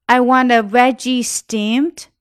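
veggie steamed run together, the s of veggies flowing into steamed; linked veggies steamed. Shown as a demonstration. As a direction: glide veggie into steamed without a break. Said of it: "Veggies和steamed会连起来". (veggie和steamed连读)

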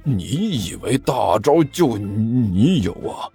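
slow, defiant retort; drawn-out challenge; unwilling to back down. Acted. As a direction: refuse to be outdone, stretching the words. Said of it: "尼采不甘示弱".

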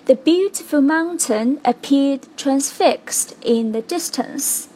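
slow, measured beats on "beautiful mountain appeared transfixed" and "distance"; stressed-word rhythm. Shown as a demonstration. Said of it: "五个重读单词". (慢速朗读，重读 "beautiful"、"mountain"、"appeared"、"transfixed"、"distance")

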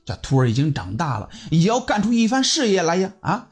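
aggrieved. Acted. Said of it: "委屈的说道".

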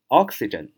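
oxygen with the weight on the first syllable ox; stress on first syllable. Shown as a demonstration. Teacher models where the stress goes in oxygen, first syllable hit. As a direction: lean on the ox of oxygen, then let it fall. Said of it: "读音在最前面".

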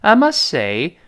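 "must say" with the t swallowed before the s; unreleased t. Shown as a demonstration. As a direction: run "must" into "say" without releasing the t. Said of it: "没有发出t这声音".

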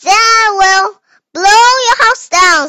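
hurried, loud reading; reading too fast to be clear; rushed. Real, not acted. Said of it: "不用那么着急，否则口齿会不清楚的".

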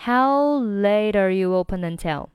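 "How late are you open until" joined throughout; one connected "How late are you open until"; fully linked sentence. Shown as a demonstration. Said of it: "整句话就变成了".

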